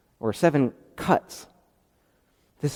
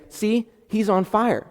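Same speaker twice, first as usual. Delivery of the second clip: mock obvious; 8 semitones higher than usual. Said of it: "you're saying".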